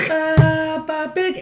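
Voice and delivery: slow, high Peppa Pig British accent; mock British accent. Shown as a demonstration. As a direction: drag it out like a British kids' cartoon. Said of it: "I have watched some, uh, Peppa Pig".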